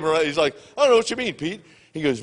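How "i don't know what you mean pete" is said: higher-pitched imitation of playing innocent; feigned ignorance. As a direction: act clueless to protect the secret. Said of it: "Barry's kayfabe".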